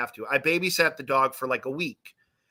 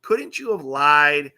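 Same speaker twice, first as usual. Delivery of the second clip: slow, stretched-out plea, lightly imitating a mad friend; mock exasperated anger; 4 dB louder, slower than usual. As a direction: draw out LIED in mock exasperation. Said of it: "He was so mad".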